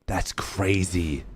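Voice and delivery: slow, hushed amazement; drawn out in disbelief; awed. Real, not acted. Reacting to near clutch.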